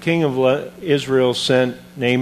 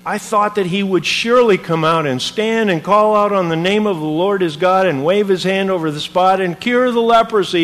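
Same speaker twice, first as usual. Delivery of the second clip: offended complaint; 5 semitones higher than usual. Retold or imitated. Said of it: "became angry and went away, saying".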